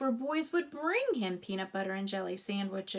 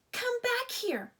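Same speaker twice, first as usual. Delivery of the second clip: high, loud dog's bark; barking order; 13 semitones higher, 4 dB louder than usual. A narrator's reading. Dog barks after the mouse, loud high bark. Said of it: "barked Sam".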